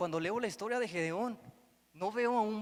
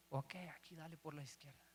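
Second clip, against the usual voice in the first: hushed, much softer whisper; whispering God; 2 semitones lower, 13 dB quieter than usual. Retold or imitated. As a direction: breathe it like a gentle divine hint. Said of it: "al susurro de Dios".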